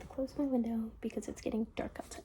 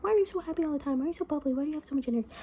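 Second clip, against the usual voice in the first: mildly mocking, higher-pitched imitation; mimicking critics; 5 semitones higher, much faster than usual. People asking why she is so happy, mocking imitation. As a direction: imitate a nagging complainer, pitched up.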